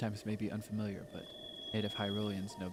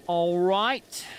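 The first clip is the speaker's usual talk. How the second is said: much higher, loud cheerful shout; 8 semitones higher, 10 dB louder than usual. Real, not acted. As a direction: call it out brightly. Loud after success.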